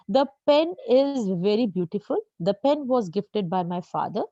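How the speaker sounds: very slow, dictation-paced sentences; slow example read. Shown as a demonstration. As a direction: read each word out for students. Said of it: "teacher reads example sentences". (श्रुतलेख की तरह धीरे पढ़ना)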